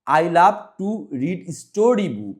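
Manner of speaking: slow reading, story book given extra force; stress on STORY BOOK. Shown as a demonstration. Teacher models the sentence for pupils, slow with stress on story book. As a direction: lean firmly on story book, slowly. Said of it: "স্টোরি বুকটা একটু জোর দিয়ে".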